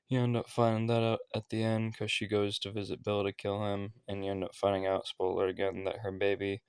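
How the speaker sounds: slightly winded, short of breath; talking while a bit out of breath. Real, not acted. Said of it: "if I sound like I'm out of breath".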